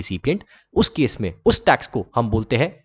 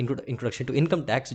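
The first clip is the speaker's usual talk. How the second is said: slow, quieter corrected title; 7 dB quieter, much slower than usual. Shown as a demonstration. Teacher slowly correcting the title after a GST slip.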